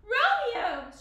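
high, very loud call; crying out. A narrator's reading. Juliet finding Romeo lying beside her, crying out. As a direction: cry the name out in alarm. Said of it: "she cried".

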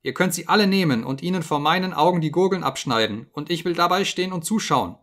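high, loud panicked begging; desperate pleading scream. Acted. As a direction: plead for your life, voice cracking upward. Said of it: "schrie er".

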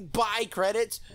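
high, incredulous echo of himself; self-mocking disbelief. Real, not acted. Catching his own silly slip, self-mocking disbelief.

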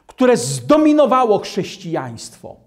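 ordinary talk, nothing marked

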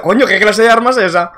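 P=A; retelling the scare. Retold or imitated. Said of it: "he dicho".

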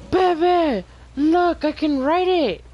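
thrilled to show off the ride; excited. Real, not acted.

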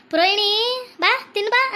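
drawn-out call to come and eat; imitated aunt's call. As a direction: imitate an aunt calling her niece to eat. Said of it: "ಅಂತ ಹೆಂಗ್ ಕರೆಯುತ್ತೆ ಗೊತ್ತಾ?".

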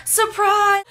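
high, loud party yell of surprise; shouted surprise. Retold or imitated. The family shouting at the toddler, a loud high surprise yell. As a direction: jump out and yell it.

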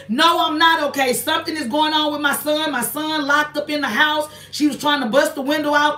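imitating a distressed woman's sudden reply; retold outburst. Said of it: "she boasted out and she said".

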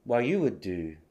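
"What you would do" as "wha-you wou-do"; dropped T. Shown as a demonstration. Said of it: "の前のTが落ちて".

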